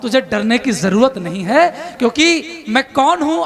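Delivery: rousing declaimed verse; epic poem recitation. Acted. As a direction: declaim it to a poetry crowd. Krishna's verse.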